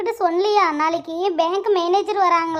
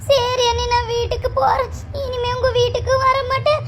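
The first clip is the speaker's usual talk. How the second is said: high tearful sulk, breaking into sobs; put-on crying; 5 semitones higher than usual. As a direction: play up a wounded, wailing tantrum. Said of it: "அடுத்து பர்ஃபார்மன்ஸை பாரு".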